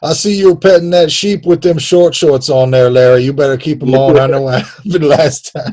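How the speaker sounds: lightly put-on Southern cop; mock Alabama accent. Cop warning Larry in a mock Alabama accent. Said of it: "That's all our Alabama accents".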